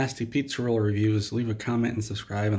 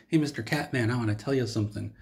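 lightly voiced, quicker redo of the line; imitating Todd's voice. Redoing Todd's greeting to the Cat Man, lightly imitated. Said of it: "Oh, wait, he said it like this".

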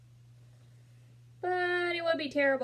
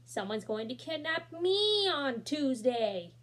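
excited thought; 4 semitones higher, slower than usual. Acted. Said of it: "thought Terry".

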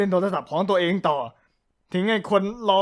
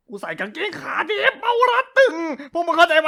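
laugh-cry plea; 9 semitones higher than usual. Acted. Narrator pleads, laughing and crying.

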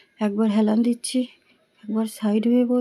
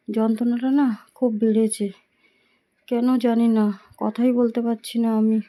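speaking through a painful throat; strained sore throat. Real, not acted. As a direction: push the words out against throat pain. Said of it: "চেপে চেপে কথা বলছি".

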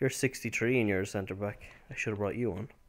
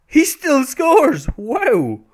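high, drawn-out commentator yell; excited commentator shout; 14 semitones higher, 11 dB louder, much slower than usual. Pretend. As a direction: call the goal like live TV. Mock commentary on goal.

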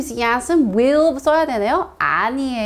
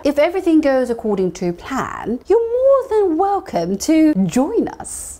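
slow drawn-out English, lifting higher at the end; slow teacher read; slow model sentence; 4 semitones higher, much slower than usual. Shown as a demonstration. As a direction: model it slowly for the class. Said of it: "어떻게 얘기하죠?".

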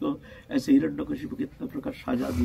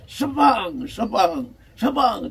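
drawn-out, raised whip-crack noise; imitated whip lashes; 5 semitones higher, slower than usual. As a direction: voice each lash as a sound effect. Imitates whip cracks while beating.

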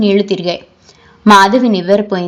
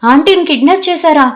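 alarmed cry; 3 semitones higher than usual. Acted. Students fearing a kidnapping to their teacher, mildly alarmed. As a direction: cry out in mild panic, then settle. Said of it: "పిల్లలంతా గట్టిగా అరిచారు".

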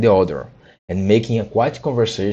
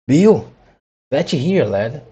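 calling out; 5 semitones higher, slower than usual. A narrator's reading. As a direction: call across the yard. Workers call to Bill.

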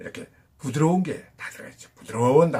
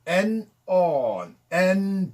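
slow demo; 3 semitones higher, much slower than usual. Shown as a demonstration. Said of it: "원래는 and".

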